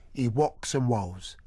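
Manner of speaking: "whocks and woes" with W for R; rolled-R impediment. Retold or imitated. Mimicking the teacher's speech impediment, W for R. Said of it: "suffered with roticism".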